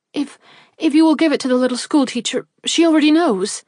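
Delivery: desperate plea rising in pitch. A narrator's reading. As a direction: beg him, voice climbing. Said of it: "pleaded Jenny".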